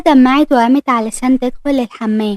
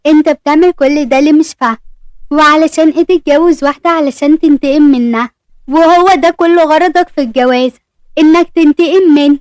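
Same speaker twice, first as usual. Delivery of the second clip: slightly raised, pressing questions; mildly angry confrontation; 2 semitones higher, 3 dB louder than usual. Acted. Dina confronts Ahmed over his revenge marriage, mildly angry. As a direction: read an accusation with restrained heat.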